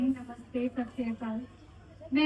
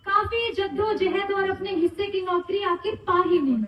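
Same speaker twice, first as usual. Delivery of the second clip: poem recitation; 3 semitones higher, 5 dB louder than usual. Acted. Recites own retirement poem for father.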